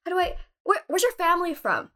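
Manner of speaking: mock fumbling politeness; awkward prying. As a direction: grope for a tactful way to ask. Voicing awkward fumbling questioner.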